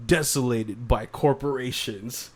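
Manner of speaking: slow, dramatic trailer narration, half laughing; movie trailer voice. Pretend. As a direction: announce it like an epic blockbuster. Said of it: "doing them in the movie trailer guy's voice".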